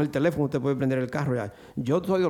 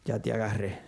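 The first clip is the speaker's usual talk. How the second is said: low, soft menacing taunt; hushed gloating devil; sly devil voice; 6 semitones lower, 9 dB quieter than usual. Acted. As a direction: whisper it like Satan catching his prey.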